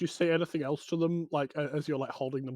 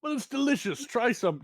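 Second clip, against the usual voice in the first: cheeky goblin; 8 semitones higher than usual. Acted.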